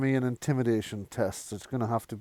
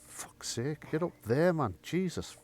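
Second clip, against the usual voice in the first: ordinary talk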